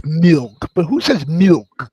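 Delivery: "milk" spelled out with a stretched short i; exaggerated milk. Shown as a demonstration. Arguing from the spelling, milk stretched on the i. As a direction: draw out the "il" in "milk". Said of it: "it's M I L K".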